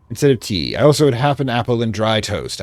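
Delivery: put-on light British accent for a diary entry; reading a diary in a mild British accent; vaguely British accent. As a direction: read it like a 1920s English diarist. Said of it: "I'm doing a vaguely British accent".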